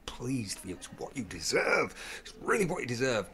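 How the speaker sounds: choked-up, whispery congratulations; tearful. Retold or imitated. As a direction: imitate someone moved to tears, voice nearly gone. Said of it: "burst into tears. Both of us did".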